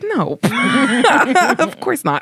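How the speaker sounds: quoted line broken by a laugh, voice high; giggling through the quote; laughing reply. Retold or imitated. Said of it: "she's like".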